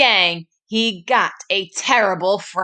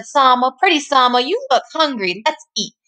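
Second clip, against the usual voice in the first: granny voice; 5 semitones higher than usual. Acted.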